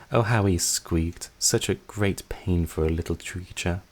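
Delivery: slow, relishing, cruel sister; gloating slowly. Acted. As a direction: savor every word of the memory.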